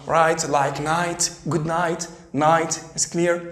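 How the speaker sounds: Right and night as rait and nait, slow; slow model of silent gh. Shown as a demonstration. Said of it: "جي اتش لا تنطق".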